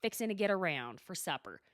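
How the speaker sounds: Oklahoma Southern demo; folksy Southern accent. Shown as a demonstration. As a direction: show off a Southern twang. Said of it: "struggling with my Southern accent".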